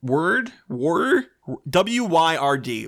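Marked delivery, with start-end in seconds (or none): 1.7-2.9 W Y R D spelled letter by letter, slowly. Shown as a demonstration. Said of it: "W's and Y's shouldn't go next to each other".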